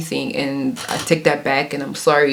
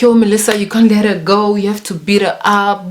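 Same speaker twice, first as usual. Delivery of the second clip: raised-voice imitation of classmates; lightly acted urging, higher pitched; egging on; 4 semitones higher than usual. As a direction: goad a friend into fighting, retold.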